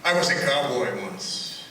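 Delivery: poem recital, measured pauses; cowboy poetry. Acted.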